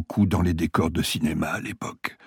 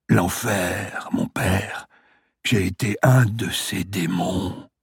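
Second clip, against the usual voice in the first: a hint of a weak old patient; dying man voice; slower than usual.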